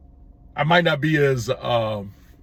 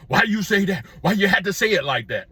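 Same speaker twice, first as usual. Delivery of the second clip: higher, mocking whine of offended people; whiny complaint; 5 semitones higher than usual. Critics complaining about blunt truth-telling, mocking higher whine. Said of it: "tear you apart because you told them the truth".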